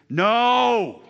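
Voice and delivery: loud, high shouted No!; booming emphatic refusal. Retold or imitated. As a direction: shut the idea down hard. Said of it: "Paul's emphatic is".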